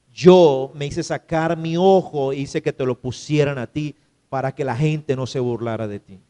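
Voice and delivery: tender sad letter. Retold or imitated. Dead mother's letter revealing her sacrifice to her son, low and tender. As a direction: read it gently, as a loving mother's farewell. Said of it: "¿sabe qué le decía allí?".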